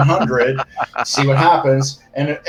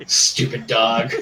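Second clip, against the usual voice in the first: stupid dog voice; slower than usual. Acted. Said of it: "different versions of stupid dog voices".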